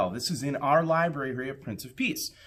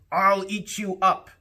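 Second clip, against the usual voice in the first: a hint of a defiant little boy, a bit higher and louder; cheeky boy; 8 semitones higher, 4 dB louder than usual. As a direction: toss it back at mother like a naughty kid. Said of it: "and Max said".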